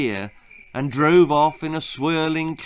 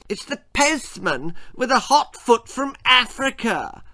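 high, raised call up the stairs; the boy shouts up to his father, high and raised; shouting back; 10 semitones higher than usual. Acted. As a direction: call it up to the bathroom. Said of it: "Percy shouted back".

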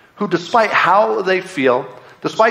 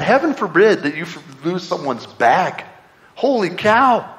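exaggerated indignation, slow on the last words; mock outrage; slower than usual. Airport traveller over a lost bag, mock outraged. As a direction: mimic an offended traveller. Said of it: "Everyone's so mad".

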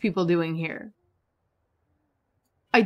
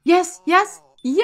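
high, louder yes; joyful cheer; 8 semitones higher, 5 dB louder, slower than usual. Real, not acted. Gamer cheering accepted proposal, joyful cheer. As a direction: cheer the win.

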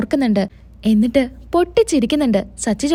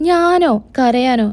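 mock-surprised denial; much slower than usual. Husband asked by wife if he cried, surprised denial. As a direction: feign surprise at the very suggestion.

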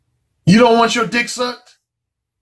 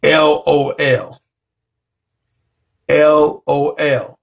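spelled-out laugh; 6 semitones lower, much slower than usual. Retold or imitated. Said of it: "her reaction was".

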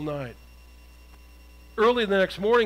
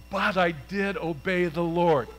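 defensive insistence. Acted. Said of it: "Saul says".

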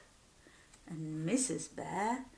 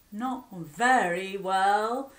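slow, yawning reply; 5 dB louder, slower than usual. Acted. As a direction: stretch the words through a big yawn. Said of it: "yawned Mister Bear".

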